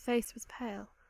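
ordinary delivery

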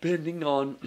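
words stretched by a yawn mid-sentence. Explaining heat treatment, the speaker yawns mid-sentence, yawning. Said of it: "sorry, I was yawning".

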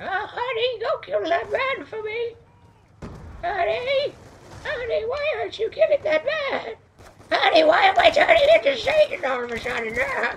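very high, stretched-out, squeaky put-on voice. Gamer after a missed kill, putting on a silly voice, high-pitched voice. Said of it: "I normally can't hit that high of a voice".

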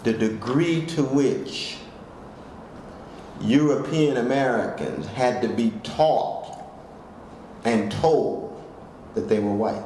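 slow, clear, deliberate, carefully spelled-out delivery. Restating a point about whiteness for listeners, the speaker says it slowly and clearly. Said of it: "Let me say that even more slowly and clearly".

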